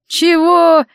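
a baffled grimace in the voice. Acted. Sorcerer balks at mother's demand, baffled. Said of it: "недоуменно скривился тот".

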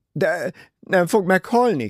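high, loud, alarmed plea; anxious cry. A narrator's reading. Jackie crying out to the doctor about the patient, alarmed. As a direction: cry out with the pitch jumping up. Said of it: "kiáltotta Jackie".

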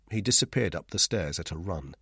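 ordinary delivery

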